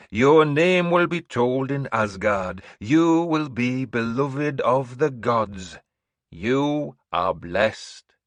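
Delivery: slow, high, loud proclamation; old seeress announcing. Acted. Seeress announcing to the hall, high and slow. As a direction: proclaim like an eerie prophetess. Breda blesses Orvar.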